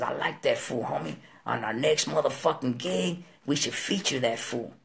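low, soft, deliberate endorsement; quiet approval. Retold or imitated. Someone suggests featuring another performer on the next gig, quiet approval. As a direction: speak low and understated.

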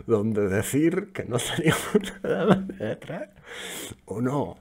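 cracking up mid-sentence while reading it out; laughing. Real, not acted. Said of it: "se tenía que partir de risa".

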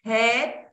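"head" starting on an audible puff of breath; aspirated H. Shown as a demonstration. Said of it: "esta es una aspiración".

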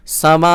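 সামা ending in a stopped hamza; stopping on hamza. Shown as a demonstration. Teacher shows how to stop on the word. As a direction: close সামা on a clipped glottal stop. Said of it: "হামজাকে সাকিন করে".

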